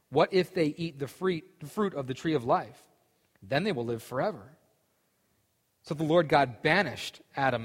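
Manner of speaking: steady Bible reading voice; scripture reading. Acted. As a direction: read it like scripture to a group. Reads scripture aloud.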